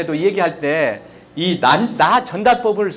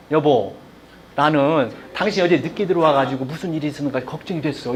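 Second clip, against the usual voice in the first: softer, lower, sincere worry; gentle worried I-message; 6 semitones lower, 4 dB quieter than usual. Shown as a demonstration. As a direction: tell your spouse you were worried, tenderly. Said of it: "이렇게 하는 것보다도". (부드럽고 진심 어린 걱정의 말투)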